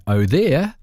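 grand telephone answer, imitating mother; a touch of the grand lady answering. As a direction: put on a grand phone manner. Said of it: "which I thought was very grand".

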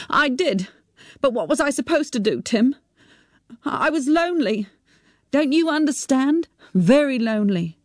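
high, pleading and near tears. A narrator's reading. Mother pleading with her son, tearful and high. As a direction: beg him to understand, voice rising.

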